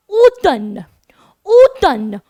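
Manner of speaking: ऊतन said as French automne. Shown as a demonstration. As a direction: say ऊतन with silent m and nasal end. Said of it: "French में हम लोग बोलते हैं ऊतन".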